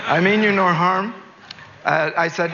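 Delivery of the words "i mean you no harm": "I mean you no harm" said higher and louder in a put-on accent; corrected accent. Shown as a demonstration. To the maid, he redoes "I mean you no harm" in the intended accent. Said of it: "Sorry, wrong accent".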